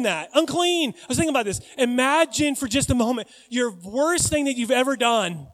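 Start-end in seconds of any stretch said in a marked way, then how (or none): 0.3-0.9 high, loud cry; yelling. Acted. Leper has to announce himself, high yelling. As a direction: call it out as a warning. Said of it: "And he had to yell".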